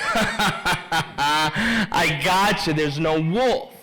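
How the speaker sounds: amused trickster admitting the prank; laughing prankster. Acted. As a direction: crow through the tail of a laugh. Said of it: "But the boy just laughs".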